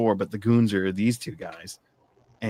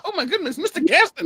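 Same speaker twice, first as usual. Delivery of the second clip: swooning fan; 4 dB louder than usual. Pretend.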